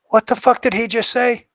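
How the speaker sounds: a man in the background, shocked, shouting out. Retold or imitated. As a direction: blurt it out stunned, from across the room. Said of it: "from the background, I hear".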